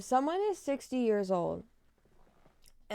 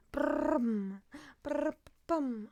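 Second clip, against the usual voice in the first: lip trill; 4 semitones higher, much slower than usual. Shown as a demonstration. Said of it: "how does that sound?".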